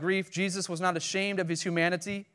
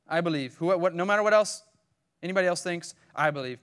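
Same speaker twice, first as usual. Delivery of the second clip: louder, insistent declaration of belief; firm insistence; 5 dB louder than usual. Acted. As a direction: declare it against all doubters. Martha insists despite what others think.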